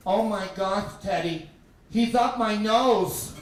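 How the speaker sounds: loud mock alarm, slowing at the end; alarmed little sister. Little sister discovering pet up her nose, loud alarm. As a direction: exclaim it, stretching the last words.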